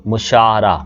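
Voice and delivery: मुशारा with u in the first syllable, drawn out; correct pronunciation demo. Shown as a demonstration. Teacher showing students the right form, careful demo of मुशारा as mu-shaa-raa. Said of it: "दुरुस्त तलफ़ुज़ है ना ये वाला है".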